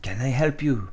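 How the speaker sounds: put-on French accent, mannish take; Villanelle. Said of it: "It's more of a man".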